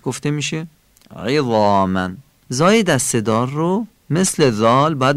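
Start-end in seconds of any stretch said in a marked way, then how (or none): 1.2-2.1 عظاما with a throaty ayn and clear i; thick ayn. Shown as a demonstration. (عظاما با عینِ غلیظ و کسرهٔ فصیح)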